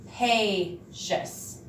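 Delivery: "Capacious" stretched out slowly and carefully; slow careful word. Shown as a demonstration. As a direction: say "Capacious" slowly, every sound clear. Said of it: "I sounded it out, and I fixed my error".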